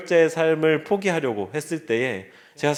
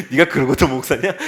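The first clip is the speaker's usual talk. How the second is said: laughing mock taunt; 4 dB louder than usual. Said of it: "이러는, 이 참소가".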